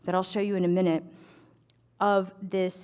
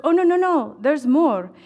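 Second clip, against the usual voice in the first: much higher and louder, eager insistence; excited no no no; 7 semitones higher, 8 dB louder than usual. Retold or imitated. The shopkeeper stopping her putting the book away, high loud excited. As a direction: stop her with eager delight.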